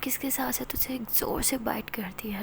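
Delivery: soft breathy intimate story whisper; whispered narration. A narrator's reading. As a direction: draw the listener close, hushed. (धीमी फुसफुसाती कथा-वाचन)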